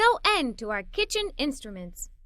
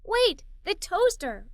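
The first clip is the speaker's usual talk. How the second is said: excited cry; 5 semitones higher, slower than usual. Acted. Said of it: "I cried with excitement".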